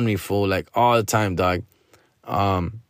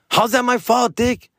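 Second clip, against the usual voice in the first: much higher, indignant rant at the friend; exasperated rant; 12 semitones higher than usual. Real, not acted. Ranting to listeners about his needy friend, exasperated. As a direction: throw the blame back, fed up.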